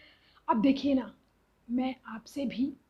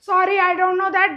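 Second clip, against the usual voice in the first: imitating Alexa; 3 semitones higher, 7 dB louder, much slower than usual. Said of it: "बोलती है".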